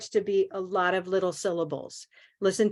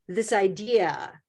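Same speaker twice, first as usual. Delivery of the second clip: "idea" with stress on the second syllable, slow; slower than usual. Shown as a demonstration. Teacher modelling word, stress on second syllable. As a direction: hit the "de" in "idea". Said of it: "stress on the second syllable".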